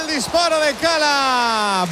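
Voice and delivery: excited shout. Real, not acted. Goal attempt called live.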